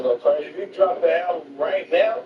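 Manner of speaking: pleading with a friend not to drop it; mock warning to Craig. Quoting himself warning Craig, high and urgent. Same clip repeated.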